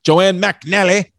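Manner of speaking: McNally slowly, copying mac-NAL-ee; copied pronunciation. Retold or imitated. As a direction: repeat McNALLY carefully with a short middle a. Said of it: "I say McNally".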